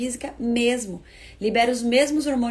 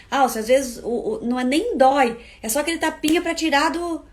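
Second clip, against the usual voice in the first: excusing parent; 4 semitones higher, 6 dB louder than usual. Retold or imitated. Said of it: "muita gente ainda fala assim".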